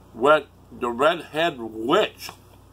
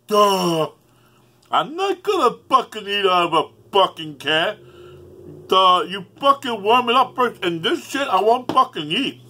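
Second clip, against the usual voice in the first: high, loud scornful mockery; mocking Mike Nelson; 5 semitones higher, 4 dB louder than usual. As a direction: sneer like a know-it-all who refuses canned food. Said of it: "I can't see Mike Nelson doing this".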